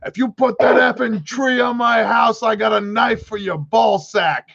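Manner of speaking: high, menacing wiseguy threat; hammed-up Italian mobster warning; mock mobster threat. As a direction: threaten him like a cartoon mob boss. Mob boss threatens the kid.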